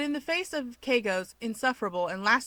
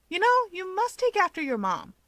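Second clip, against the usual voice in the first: much higher, louder teasing; teasing remark; 11 semitones higher, 4 dB louder than usual. Acted. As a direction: tease him brightly. Keigo teasing observation.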